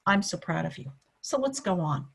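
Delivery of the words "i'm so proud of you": lower, condescending pat on the head; paternalistic. Shown as a demonstration. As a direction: say it like a patronizing parent. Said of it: "kind of paternalistically or maternalistically".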